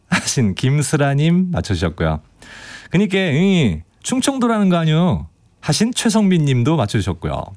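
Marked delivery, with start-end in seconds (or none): 2.9-5.3 Chungcheong dialect. Retold or imitated. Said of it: "사투리 어설프게 써서".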